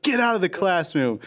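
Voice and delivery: high-pitched retold teacher outburst; mock angry dismissal. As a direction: act out a teacher ordering a kid out. Upset teacher throws Timmy out.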